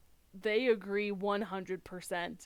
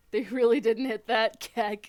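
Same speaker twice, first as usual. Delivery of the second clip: laughing loudly through the words; real amused laughter; 2 semitones higher, 13 dB louder than usual. Real, not acted. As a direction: crack up while saying it. Laughing at the accent choice.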